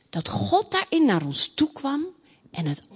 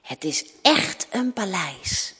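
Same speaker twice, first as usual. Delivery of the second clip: content; 6 semitones lower, 4 dB quieter than usual. Acted. Princess contentedly ends the story.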